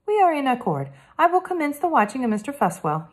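lightly voiced polite French boy detective; a hint of a careful French accent, earnest; Hector, French boy.

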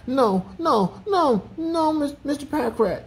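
high character voice, checking himself; self-scolding. A narrator's reading.

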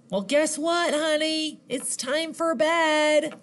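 high, sing-song mom voice; lightly voiced mom breaking bedtime news; storybook mom. A narrator's reading. Mom answering centipede in story.

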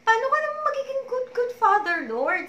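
crying plea. Retold or imitated. Questioning the Lord while crying hard. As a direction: cry out the question through tears. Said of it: "I was crying".

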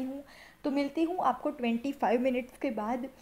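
face mask covering cheeks; talking while smoothing mask; through a sheet mask. Real, not acted. Seen 0: Wet sheet mask covers her face; mouth hole leaves lips mostly free.

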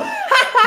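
high loud burst of laughing; burst of laughter. Real, not acted. Gamer after being knocked down by a trap, high loud laugh.

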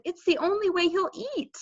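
high-pitched plea of a mother; pleading. A narrator's reading. Mother explaining to Peter about Fudge, pleading.

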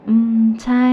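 bursting with news on the phone; excited friend. A narrator's reading. Pat bursts out on the phone to her friend, excited and loud.

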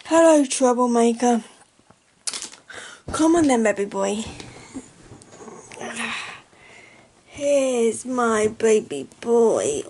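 cooing pet voice for the dog. Real, not acted. Talking to her dog Diesel, loud cooing baby talk.

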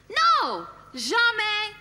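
high, loud no; furious no to her husband; angry shout. Acted. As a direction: shout it like a verdict. Wife answers her own question angrily.

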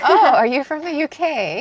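lightly put-on British accent; a touch of British accent. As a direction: ask it in mock British. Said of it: "talk in a British accent from now on".

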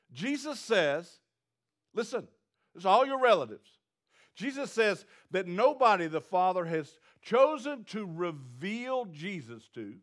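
usual speaking voice

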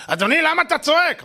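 nurse voice. Retold or imitated. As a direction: play the nurse, high and indignant. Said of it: "אמרתי לה". (אחות נעלבת, בקול גבוה)

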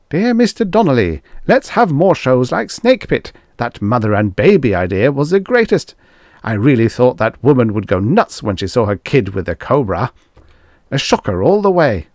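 high, loud gleeful fan voice; excited letter-writer voice; thrilled fan. Acted. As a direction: gush over the shocker.

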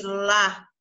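LÁ with an open A sound; open vowel. Shown as a demonstration. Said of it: "É um som aberto".

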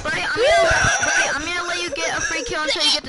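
loud call across the game. Real, not acted. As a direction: shout it to a teammate. Calling out to player.

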